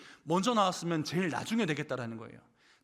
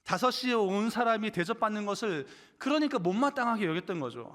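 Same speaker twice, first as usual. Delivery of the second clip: normal talking voice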